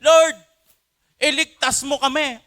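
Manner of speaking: high, loud desperate plea; a shouted prayer for help; urgent cry. Shown as a demonstration. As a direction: cry out to God for rescue right now. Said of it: "lagi mong sinasabi".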